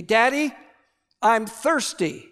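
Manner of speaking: lightly voiced small girl, slow; a hint of a child's whine, drawn out; little girl voice. Father voices small daughter.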